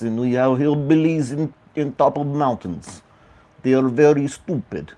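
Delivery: lightly put-on Russian accent, joking; attempted Russian accent. Shown as a demonstration. Host joking about hillbillies in Russia, attempted Russian accent. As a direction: try a rough comic Russian accent. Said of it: "talk like Russian like this".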